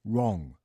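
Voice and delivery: "wrong" with an English R, tongue not touching; R pronunciation. Shown as a demonstration. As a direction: say "wrong" with an untapped R. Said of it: "下顎をつけないで".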